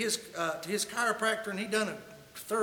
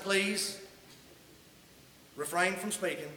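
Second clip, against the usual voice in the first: mock polite; 3 semitones lower, 5 dB quieter than usual. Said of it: "I didn't say it that nice".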